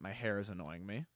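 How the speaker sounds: ordinary talk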